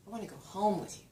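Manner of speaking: "home" lifted above the rest; stress on "home". Shown as a demonstration. Lecturer repeating example, stress on "home". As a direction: lean gently on "home". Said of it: "But supposing I said".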